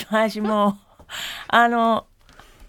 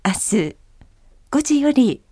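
flight announcement. Shown as a demonstration. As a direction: announce calmly to passengers. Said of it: "飛行機アナウンス風で".

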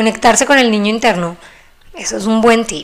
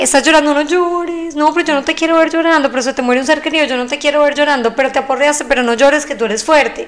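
higher, quicker, mock-scolding adult voice; adult hushing a crying child; 5 semitones higher than usual. People telling a crying child to stop, lightly mock-scolding. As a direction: imitate a grown-up brushing off a child's tears, pitched up. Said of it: "Después es como que".

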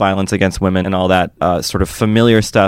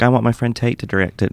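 a hint of a Southern US accent; 3 semitones higher than usual. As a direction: quote her lightly in a Southern accent. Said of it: "That was my southern accent".

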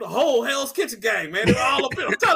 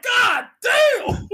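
high, loud, drawn-out shout; hammed-up astonished yell; shocked exclamation; 13 semitones higher, 5 dB louder than usual. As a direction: holler it in mock shock. Own shocked reaction, acted out.

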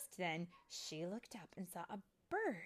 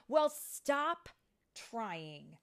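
loud, high snap easing off; yelled retort; 4 semitones higher, 9 dB louder, much slower than usual. A narrator's reading. Vidia to Tink who meant to help, yelled retort. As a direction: yell back in annoyance. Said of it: "Vidya yelled".

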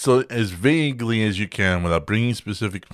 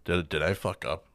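worried mutter; 4 semitones lower, 8 dB quieter than usual. Retold or imitated. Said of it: "where you're just like".

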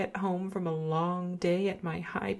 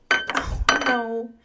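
surprised; 5 semitones higher, 6 dB louder than usual. Acted. Spills tea.

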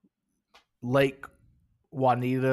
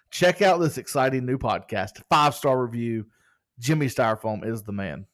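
mock promotional plug; playfully self-promoting; facetious. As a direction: read it as a tongue-in-cheek rave review. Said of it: "I'm being facetious there".

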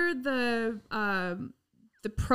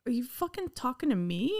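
retold angry retort; 4 semitones higher than usual. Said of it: "I looked at her and I said".

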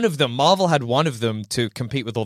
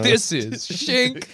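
slow drawn out; 10 semitones higher, much slower than usual. Pretend. Playing the shink bit.

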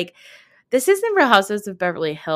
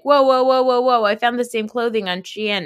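loud, high whoa whoa; excited shout; 4 semitones higher, 4 dB louder than usual. Retold or imitated. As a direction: call out in excitement. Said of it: "people will be like".

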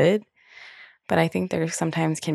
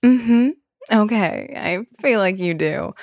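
knowing therapist; 5 semitones higher, 4 dB louder, slower than usual. Retold or imitated. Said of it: "she'll be like".

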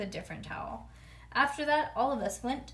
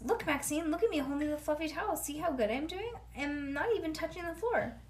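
put-on excited child; 6 semitones higher than usual.

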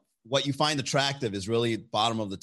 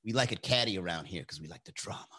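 mock catty mean-girl voice, pitched high; 5 semitones higher than usual. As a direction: play the snooty clique sneering at the outsider. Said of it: "And everybody was like".

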